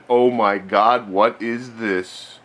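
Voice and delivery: slow, drawn-out awe; milk the reveal slowly; mock amazement. Mock amazement at new arcade.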